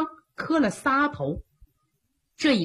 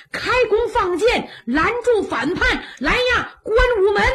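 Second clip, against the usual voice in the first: frightened shouting; 9 semitones higher than usual. Acted. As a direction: yell in fear to shut the gate. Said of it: "吓得直喊呐".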